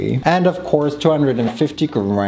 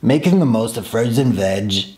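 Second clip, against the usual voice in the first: Jamie Oliver voice. Retold or imitated. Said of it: "that's his voice".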